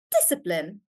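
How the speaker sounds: discipline with the first syllable DIS stressed. Shown as a demonstration. Teacher explaining three-syllable words, discipline stressed on DIS. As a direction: hit DIS, let the rest of discipline drop. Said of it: "we say it like dis".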